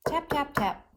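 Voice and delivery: three crisp, separate "tap"s, pitched high; short, even "tap"s with a knock on each. Shown as a demonstration. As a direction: say "tap" like knuckles on a door. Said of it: "I said it, I even knocked".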